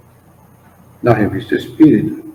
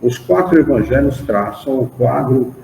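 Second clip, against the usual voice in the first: measured, emphatic reading of a doctrinal text; formal study-group recitation with lifted key words; solemn read-aloud; 3 semitones higher than usual. Acted. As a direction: read it out phrase by phrase, pausing between clauses. Reads a religious text aloud.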